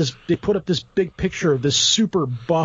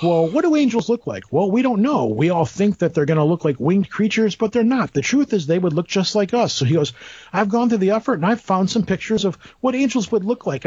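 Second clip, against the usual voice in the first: lightly voiced presenter, pitched up; earnest presenter; 3 semitones higher than usual. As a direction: lightly mimic a lecturer explaining to his audience. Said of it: "and the guy's like".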